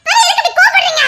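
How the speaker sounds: laughing protest. Acted. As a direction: tease him for getting angry. (சிரிப்புடன் கேள்வி)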